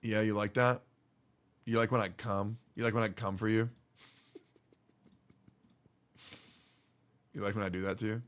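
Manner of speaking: low, hushed fake dirty talk; soft, low teasing come-on; mock seductive. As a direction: murmur it suggestively as a joke.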